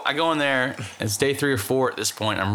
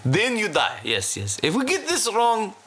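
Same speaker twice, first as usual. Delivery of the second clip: put-on Russian accent; 9 semitones higher than usual.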